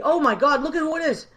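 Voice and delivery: thrilled to see a friend pop up in the chat; excited surprise. Real, not acted. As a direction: pitch jumps up high and loud, delighted. Spots a friend in live chat.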